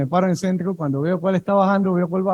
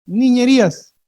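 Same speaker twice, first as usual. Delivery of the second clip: louder call; 4 semitones higher, slower than usual. Shown as a demonstration. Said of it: "No escucho".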